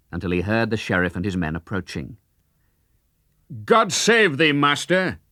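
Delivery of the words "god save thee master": Little John's raised, high greeting; mock cry. Little John kneels and cries to the sheriff, high and eager. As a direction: call it out eagerly, pitched up. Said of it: "he cried".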